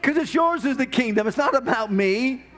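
passionate spoken prayer rising to praise; fervent prayer. Acted. Preacher praying aloud before the congregation, fervent. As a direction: pour it out as worship.

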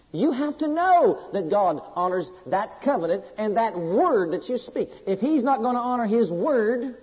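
slow, weighty sermon delivery; emphatic preaching. Real, not acted. Preacher teaching that faith needs God's known will, emphatic preaching. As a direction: hammer out the doctrine word by word.

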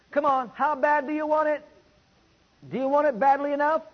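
urging challenge. Real, not acted. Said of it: "challenging the congregation".

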